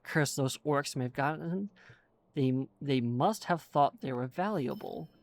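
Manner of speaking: lightly voiced old dwarf explorer, chatty; a hint of a fussy old dwarf rambling on; lightly voiced dwarf NPC reading his quest; forgetful old dwarf.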